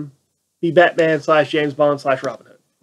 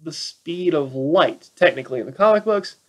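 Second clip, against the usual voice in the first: deadpan retort. Retold or imitated. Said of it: "I'm like".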